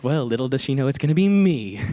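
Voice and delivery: amused, half-laughing aside. Real, not acted. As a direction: giggle out the punchline. Punchline laughed through.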